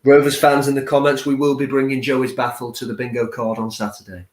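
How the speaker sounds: smooth radio announcer read. Pretend. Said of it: "that is a lovely announcer voice there".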